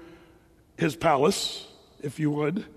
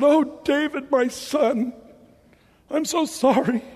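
higher-pitched, hammed-up apology; lightly voiced remorseful Saul; 5 semitones higher, slower than usual. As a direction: plead lightly as a contrite king.

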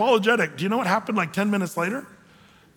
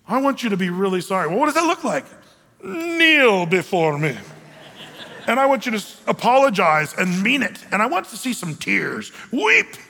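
demanding apology; 2 semitones higher than usual. Acted. Wronged person ordering the offender to grovel, mock demanding.

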